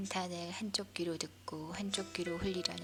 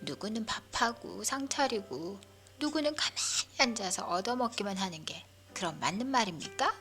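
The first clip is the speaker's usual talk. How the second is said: complaining grandmother; 3 semitones higher, 4 dB louder than usual. Acted. Grandmother quoting her quarrel.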